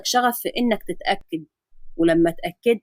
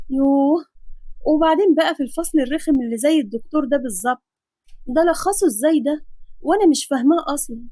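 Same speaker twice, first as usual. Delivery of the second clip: put-on a lightly raised young woman's voice, fed up with the chapter; fretting girl student; 3 semitones higher than usual. Nafisa grumbling to herself over the summaries, lightly fed-up girl's voice. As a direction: grumble at the dull lesson like a tired student.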